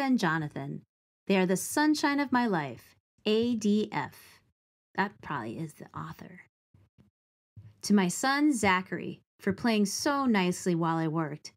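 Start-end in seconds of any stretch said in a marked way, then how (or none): 5.0-6.4 fast whispered comment; whispered aside. Real, not acted. Reader whispers a guess to the children, whispered. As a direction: lean in and whisper it. Aside while reading dedication.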